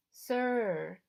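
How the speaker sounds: a smooth, understated correction; smooth prompting. Acted. Charon prompts the boy for respect, smoothly. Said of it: "he added smoothly".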